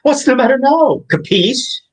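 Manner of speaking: put-on Russian accent. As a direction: growl it out like a Russian gangster. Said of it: "we've got our Russian accents".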